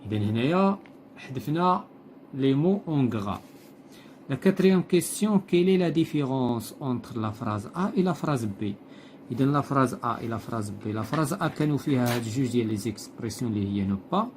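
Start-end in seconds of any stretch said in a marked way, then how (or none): 4.3-8.7 slow, deliberate read-aloud of the text; slow textbook reading. Acted. Teacher reading the textbook passage to pupils, slow and deliberate. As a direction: read each phrase slowly, like dictation to the class. Teacher reads exercise question.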